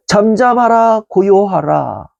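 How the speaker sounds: slow, settling command; a measured, steady command to be still; slow calm command. Shown as a demonstration. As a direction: say it slowly to calm the storm. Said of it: "이 두 문장을 기억하시기를 바랍니다".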